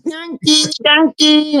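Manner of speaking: high singsong call of Yankee; mock Filipino call. Guest imitates locals calling him a Yankee. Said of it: "everybody's looking at me going".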